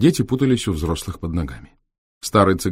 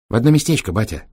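deferential gypsy lad, higher; respectful; 4 semitones higher, 3 dB louder, faster than usual. Acted. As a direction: answer the boss respectfully. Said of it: "почтительно ответил Витёк". (почтительно, голосом цыгана)

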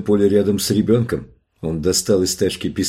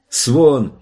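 higher, drawn-out shout of a name; calling out; 6 semitones higher, 4 dB louder than usual. A narrator's reading. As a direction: call after someone lost in the field. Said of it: "она услышала крик Джоша". (зовущий крик)

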